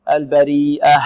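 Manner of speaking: long ee, then a distinct ه in البريئة; clear final ه. Shown as a demonstration. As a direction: end البريئة on an audible breath of h. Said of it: "إيضاح الهاء في البريئة". (البريئة مع إيضاح الهاء)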